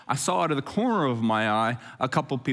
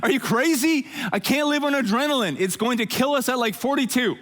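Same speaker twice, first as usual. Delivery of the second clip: much higher, cartoonish voice for his own worn-out body; your body talking; 10 semitones higher than usual. Pastor voices the body pleading for rest, high and cartoonish. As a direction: play the exhausted body scolding its owner, laughing. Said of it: "your body's like".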